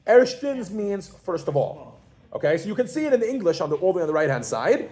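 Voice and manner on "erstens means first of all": Erstens said slowly as ERSH-tens; slow model word. Shown as a demonstration. Teacher to class, Erstens said slowly as ERSH-tens. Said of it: "does everybody see how it goes?".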